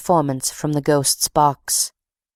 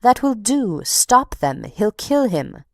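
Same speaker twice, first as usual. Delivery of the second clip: retold shouts; 5 semitones higher than usual. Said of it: "People in the house shouted".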